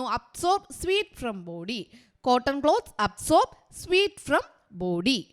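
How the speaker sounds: each word spaced out very slowly for writing down; teacher dictating at a crawl; slow dictation. Shown as a demonstration. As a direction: read it out slowly so the class can copy it. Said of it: "നിങ്ങൾ എഴുതിക്കോളുക കേട്ടോ".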